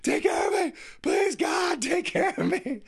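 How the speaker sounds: hammed-up whiny child; whiny kids. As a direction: play a bored kid begging for attention. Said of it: "the kids are like".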